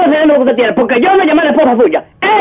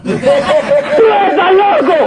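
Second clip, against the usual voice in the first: laughing; 2 semitones higher, much slower than usual. Acted. Super laughs off the apology.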